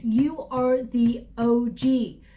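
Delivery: slow, emphatic, each word weighted; a spirit speaking through the reader, slow and pointed; channeled spirit voice. Pretend. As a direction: lay it down slowly like tapping a finger on the table. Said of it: "I don't actually talk like that at all".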